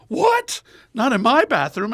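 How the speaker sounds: high, loud imitated outrage; shocked nun. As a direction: shriek "what" in mock disbelief. Nun's shocked reply, acted.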